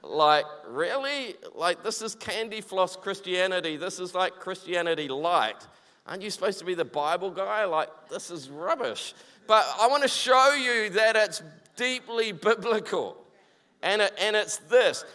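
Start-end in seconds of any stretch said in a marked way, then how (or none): 0.0-9.1 mildly unimpressed sceptic; underwhelmed. Acted. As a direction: voice a listener's mild letdown, slightly subdued. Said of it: "you're probably gonna be incredibly underwhelmed".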